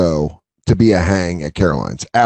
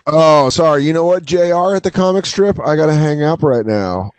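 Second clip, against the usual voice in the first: lightly put-on, higher-pitched apology; mock phone brush-off; 4 semitones higher than usual. Comic cutting a phone call short, mock apologetic. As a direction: imitate someone excusing himself from a call.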